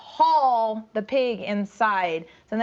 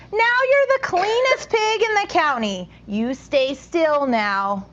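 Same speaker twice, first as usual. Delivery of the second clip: sly fox; 5 semitones higher, 3 dB louder, slower than usual. Acted. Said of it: "said the fox".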